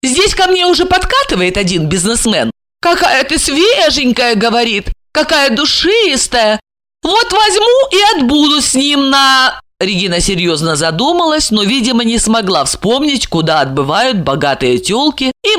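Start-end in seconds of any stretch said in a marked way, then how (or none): 0.0-9.6 high, preening female voice; high-pitched coquettish bragging; boastful, coquettish woman. Acted. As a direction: show off a suitor to provoke. Plays Regina boasting of a suitor.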